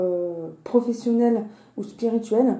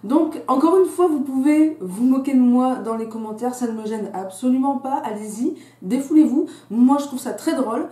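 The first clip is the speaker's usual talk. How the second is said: slight lisp from a fresh tongue piercing; lisping on the s sounds. Real, not acted. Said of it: "il est fort probable que je zozote".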